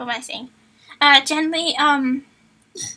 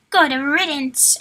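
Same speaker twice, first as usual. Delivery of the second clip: snarl; 4 dB louder, much slower than usual. Acted. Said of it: "Asher snarled".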